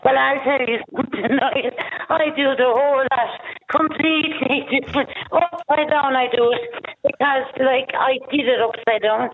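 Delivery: down a well. Real, not acted. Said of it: "She sounds like she's at the bottom of a well".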